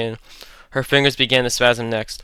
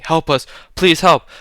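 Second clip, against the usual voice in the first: screaming; 6 semitones higher, 5 dB louder, slower than usual. Acted. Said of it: "Natalie was screaming".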